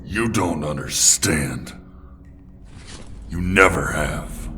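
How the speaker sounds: slow, weighty reproach; stern rebuke. Acted. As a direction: drag the words out in reproach. Bruce rebukes Jason after accusation.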